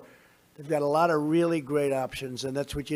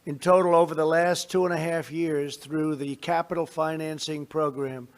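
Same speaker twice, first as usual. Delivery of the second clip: measured, formal address to a crowd; podium speech; 3 dB louder than usual. Real, not acted. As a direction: deliver it like prepared remarks.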